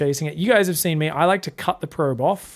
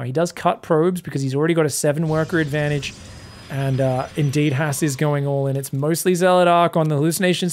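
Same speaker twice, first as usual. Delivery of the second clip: ordinary delivery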